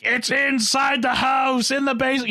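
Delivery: hammed-up panicked shout; alarmed shout. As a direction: yell the warning like a panicked worker. Characters panic about the monster.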